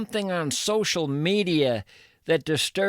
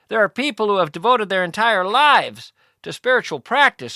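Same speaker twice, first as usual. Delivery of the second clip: lecturing; 6 dB louder than usual. Acted. Interviewer lectures Tim.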